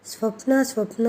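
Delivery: a scared call to a fainting wife; husband calls to his collapsing wife in fright; frightened calling. Acted. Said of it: "Deepak నన్ను చూసి వణికిపోతూ".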